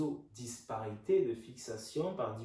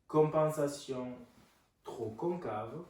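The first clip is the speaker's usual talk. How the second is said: dictating; slower than usual. Shown as a demonstration. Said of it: "je vous laisse noter".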